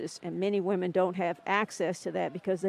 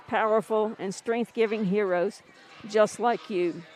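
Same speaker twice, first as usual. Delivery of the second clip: heartfelt tribute reading. Shown as a demonstration. Radio host reads the Nike tribute to listeners, fighting tears. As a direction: read the ad aloud like a eulogy, holding back emotion. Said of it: "I'll read it to you if I can d-, do it, excuse me, without choking up".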